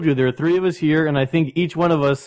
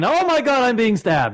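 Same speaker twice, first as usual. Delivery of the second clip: high-pitched movie victim cry; hammed-up panic, voice leaping up; mock horror panic; 8 semitones higher than usual.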